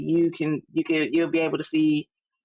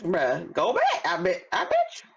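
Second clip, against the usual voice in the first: laughing; 3 semitones higher than usual. Real, not acted. Laughing challenge to cohost.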